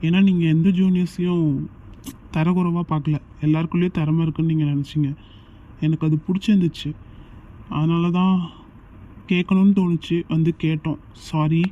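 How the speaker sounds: earnest loud plea. Acted. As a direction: push it out loud and sincere. Juniors earnestly pleading with seniors.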